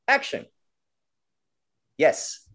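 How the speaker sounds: director. Retold or imitated. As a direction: instruct the boy like a busy director. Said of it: "the director comes".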